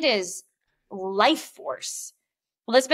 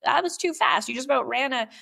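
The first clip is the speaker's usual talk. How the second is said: sassy comeback; 5 semitones higher than usual. Retold or imitated. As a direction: put the driver in his place. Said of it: "It's like".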